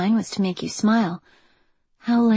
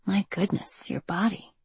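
breathless admiration; 8 dB quieter than usual. A narrator's reading. Admiring his body.

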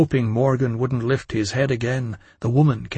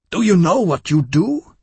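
higher, louder alarmed cry; alarmed shout; 6 semitones higher, 6 dB louder than usual. A narrator's reading. Woman stops Louis at the door, alarmed shout. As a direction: shout that he's mad.

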